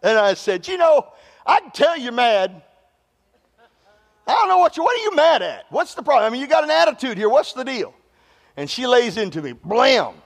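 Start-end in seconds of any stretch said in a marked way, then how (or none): 0.7-7.9 irritated. Retold or imitated. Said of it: "I'm irritated about it".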